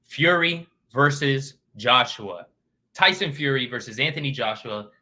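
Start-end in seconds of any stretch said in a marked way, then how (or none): 0.0-2.5 slow, louder ring-announcer build; announcer hype. Shown as a demonstration. Vlogger introducing the main event after a drum roll, announcer style. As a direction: draw it out like a big fight intro. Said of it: "drum roll".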